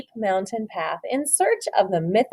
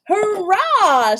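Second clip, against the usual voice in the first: higher, louder cheer; excited shout; 9 semitones higher, 4 dB louder than usual. Acted. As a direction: cheer as if at last. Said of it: "shouted George".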